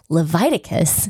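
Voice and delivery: Leviticus said leh-VYE-tuh-kus, with the long vye from the name Levi; sounding out words. Retold or imitated. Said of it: "So he starts it like his name".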